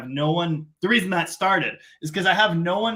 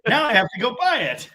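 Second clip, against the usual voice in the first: much higher, loud excited shout; he spots the Power Wagon and yells, much higher; 11 semitones higher, 4 dB louder than usual. Retold or imitated. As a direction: shriek it out like you just found treasure. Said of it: "And then I opened it again and went".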